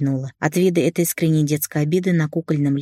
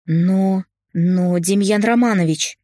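bleating plea; 3 semitones higher, slower than usual. A narrator's reading. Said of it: "заблеяла женщина мне вдогонку".

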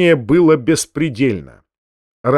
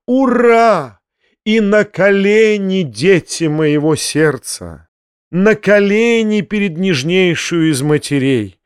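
exalted; 5 semitones higher, slower than usual. Acted. Фома ликует, ставит на колени.

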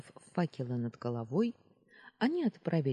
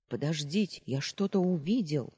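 stubborn insisting; 3 semitones higher, 4 dB louder than usual. Acted. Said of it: "заупрямился Перети".

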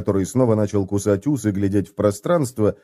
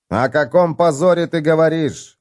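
exclaiming; 7 semitones higher than usual. Acted. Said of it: "воскликнул Хамнер".

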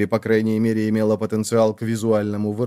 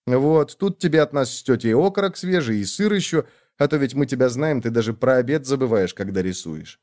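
a hint of a fussy younger sister; sister's voice. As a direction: play the busy little sister, light and quick. Sister fussing over brother.

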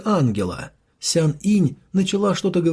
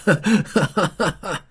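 crazed, gleeful cackle; villain laughing; 2 semitones higher than usual. A narrator's reading. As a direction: keep laughing like a madman. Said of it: "продолжал смеяться".

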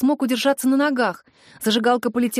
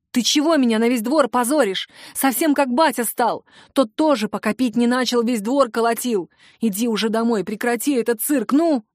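exasperated telling-off with a raised final prod; scolding mother. Acted. Mother shamed before the whole yard, scolding her son. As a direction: scold the son and order him home.

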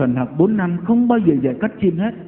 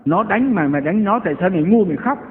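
imitating a scolding mother, raised and sharp; 6 semitones higher, faster than usual. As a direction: berate the boy like an exasperated Cà Mau mother. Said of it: "Thế bà bảo rằng".

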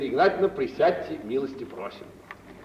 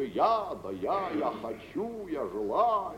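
mock pompous; 3 semitones lower, 4 dB quieter, slower than usual. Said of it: "тон какой взял".

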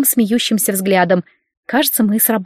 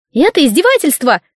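high, shrill-edged outburst; squealing protest; 6 semitones higher, 3 dB louder than usual. Acted. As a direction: shriek it from the bed. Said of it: "взвизгнули с койки".

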